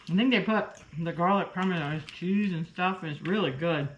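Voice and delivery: talking with a mouth full; words round a bite of oyster. Real, not acted. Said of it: "And I'm talking with my mouth full".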